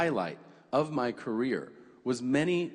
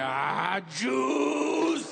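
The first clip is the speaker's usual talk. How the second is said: shouted Hitler; 10 semitones higher than usual. Retold or imitated. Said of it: "he was like".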